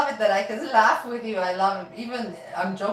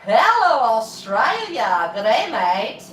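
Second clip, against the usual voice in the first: friendly greeting; 3 dB louder, much slower than usual. Retold or imitated. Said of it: "You should say".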